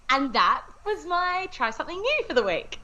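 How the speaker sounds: high, laughing through the words; bubbling with laughter. Real, not acted. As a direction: giggle as you wrap it up. Laughing through her sign-off.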